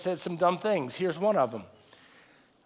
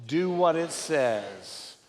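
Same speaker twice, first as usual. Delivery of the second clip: congregation reading aloud; 5 semitones lower, much slower than usual. Real, not acted. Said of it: "let's all read this out loud together".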